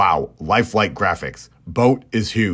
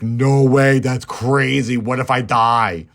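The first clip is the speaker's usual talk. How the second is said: higher, louder exaggerated protest; mock alarm; 4 semitones higher, 4 dB louder, slower than usual. Red balks at Jack's invitation to dance, mock alarm. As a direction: play up the panic, drawing out the end.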